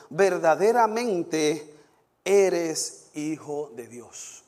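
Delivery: measured Bible reading, slowing at the quotes; scripture reading. Real, not acted. Preacher reading Matthew's rescue to the congregation, solemn declamation. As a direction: proclaim the passage, weighty on each quote.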